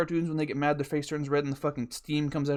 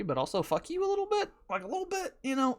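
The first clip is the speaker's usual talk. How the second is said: mock sweet jab; 10 semitones higher, faster than usual. Jokey jab at BMW drivers.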